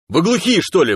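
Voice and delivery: loud, high barked rebuke; рявканье. A narrator's reading. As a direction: bark at them as if they were deaf. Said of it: "рявкнул он Фиру с подругой". (громкий раздражённый окрик)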